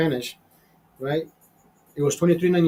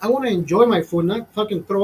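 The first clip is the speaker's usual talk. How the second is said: exasperated rant; 6 semitones higher than usual. Real, not acted. Fifty-year-old ranting about restaurant music, exasperated and high. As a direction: pitch jumps high in disgust.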